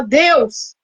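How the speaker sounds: imitating her desperate prayer at the hospital; retold tearful prayer. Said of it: "comecei a chorar e falar".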